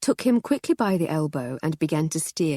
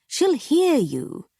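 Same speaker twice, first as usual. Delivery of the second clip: much higher, hushing wife voice; high shushing wife; 10 semitones higher, 3 dB louder, slower than usual. Acted. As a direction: shush him, high and anxious.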